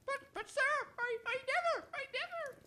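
soft, high, stammering protest; flustered denial. Acted. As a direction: stumble over the words in fright. Servant accused of theft.

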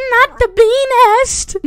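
high, drawn-out cry; mock alarm. Real, not acted. Player reacting to a bee nest, mock alarm.

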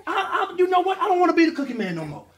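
put-on high, excited baby speech; voicing the baby. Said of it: "you turned around and you said".

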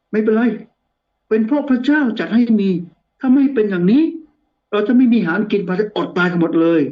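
Joseph. Acted. Preacher as Joseph forgiving his brothers, lightly acted reassurance. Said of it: "ก็เลยบอกพี่ๆบอกว่า".

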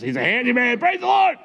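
high, rising to a squeal; hammed-up delighted cheer, pitch shooting up; mock jubilation. Preacher retelling his happy text to Kelly, jubilant high exclamation.

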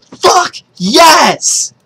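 high, stretched-out cry of triumph; real elated exclamation; hyped up. Real, not acted. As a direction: let the celebration burst out slowly. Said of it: "I'm so hyped up right now".

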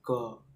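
teacher's demonstration of "क"; C read as "क". Shown as a demonstration. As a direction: give the k sound "क" on its own, softly. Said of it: "तो इसका उच्चारण".

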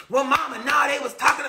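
put-on high-pitched kid complaining to mama; retold indignant protest. Middle schooler complaining to mama, mock indignant. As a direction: protest upward, imitating your younger self. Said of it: "I used to get so mad".

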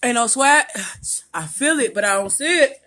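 pushing through the burn; mouth burning from spicy food. Real, not acted. Sweating from the heat.

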